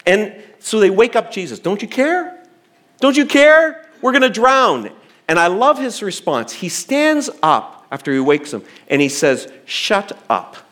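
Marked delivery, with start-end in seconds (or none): 1.6-2.4 higher, rising panicked question; panicked plea. Retold or imitated. Disciples waking Jesus in the storm, higher panicked plea. 3.0-4.9 higher and louder desperate cry; frantic plea. Retold or imitated. Disciples begging Jesus as the boat floods, louder frantic cry. 9.6-10.6 curt, blunt order; abrupt command. Retold or imitated. Jesus silencing the wind and waves, curt command. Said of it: "lends more to an abrupt "shut up".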